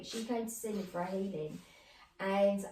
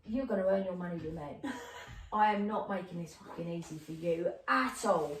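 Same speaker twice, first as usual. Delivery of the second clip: lightly voiced, lower, unyielding woman; a hint of stubborn defiance, pitched down; difficult spirit quoted; 4 semitones lower than usual.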